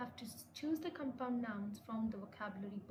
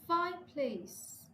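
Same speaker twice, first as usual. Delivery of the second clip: "fire" high and loud in "fireplace"; stress on first word; 6 semitones higher, 6 dB louder, slower than usual. Shown as a demonstration. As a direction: slowly punch "fire", let "place" fall. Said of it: "we stress the first word".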